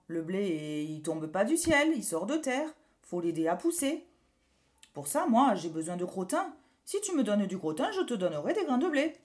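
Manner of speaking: a lightly voiced loud farmer. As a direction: lecture like a gruff farmer. Farmer explains crops.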